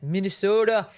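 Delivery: Minnesota with long rounded O's, mock Midwestern; mocking the Midwestern vowels in Minnesota; mock Midwestern accent. Mocking a politician's fake accent, Midwestern Minnesota. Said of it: "he even puts on the fake Midwestern accent".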